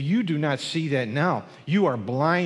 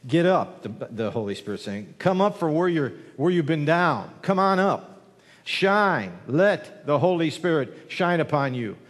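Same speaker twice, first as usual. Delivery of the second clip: preaching. Acted. Preaching Spirit's call.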